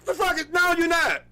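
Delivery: cracking up in disbelief; laughing disbelief. Real, not acted. Laughing retelling his reaction.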